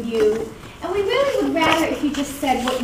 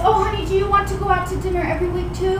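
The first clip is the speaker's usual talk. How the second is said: mock eager husband; 6 semitones higher, faster than usual. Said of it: "do you think he then goes".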